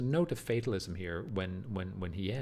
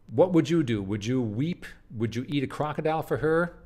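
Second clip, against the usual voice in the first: crazed ranting; 4 semitones higher, 7 dB louder than usual. Acted. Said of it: "he continues crazy".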